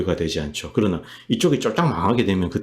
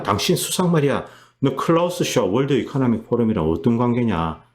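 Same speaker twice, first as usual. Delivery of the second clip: higher-pitched, acted-out grilling of a politician; mock indignant challenge; 3 semitones higher than usual. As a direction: play someone demanding answers from a liar. Acted accusation against prime minister. (어이없다는 듯 따지는 흉내)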